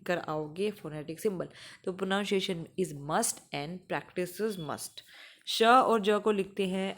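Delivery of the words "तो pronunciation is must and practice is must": slow, each word stressed; teacher stresses the slogan; emphatic slogan. Shown as a demonstration. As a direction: drive the rule home. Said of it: "stressed teaching slogan".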